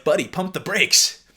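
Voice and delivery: slow, loud, exasperated warning; mock-stern warning to an eager guy; telling him to slow down. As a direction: ease off, buddy, slow and firm. Reacting to texts, scolding guy.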